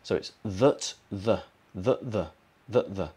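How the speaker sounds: that and the said weak and quick; weak forms. Shown as a demonstration. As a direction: keep that and the light. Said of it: "that with a schwa".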